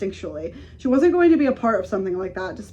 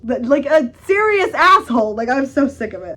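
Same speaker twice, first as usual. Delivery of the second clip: exasperated outburst; 3 semitones higher, 6 dB louder than usual. Real, not acted. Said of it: "complains about Braun".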